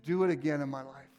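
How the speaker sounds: hushed worship prayer. Acted. Leads a prayer over music.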